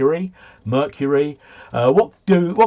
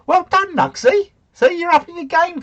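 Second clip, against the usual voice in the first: excited praise. Real, not acted. Praising viewer Nugsy.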